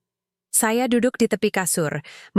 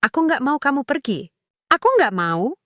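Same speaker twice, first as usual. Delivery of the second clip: tearful pleading; 7 semitones higher than usual. A narrator's reading. Daughter pleading, crying.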